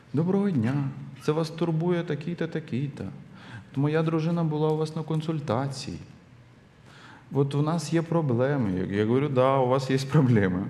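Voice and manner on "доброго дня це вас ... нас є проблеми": put-on soft, gentle, sweet, tender voice. Retelling a man's phone call, imitating him: mock-tender, gentle voice. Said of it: "вот таким нежным голосом".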